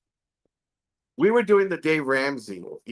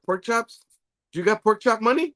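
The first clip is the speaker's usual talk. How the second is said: mock question; 5 semitones higher, 3 dB louder than usual. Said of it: "I go".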